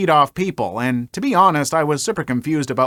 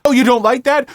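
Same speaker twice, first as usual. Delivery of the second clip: angry; 8 semitones higher, 5 dB louder than usual. Retold or imitated. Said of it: "he responded with".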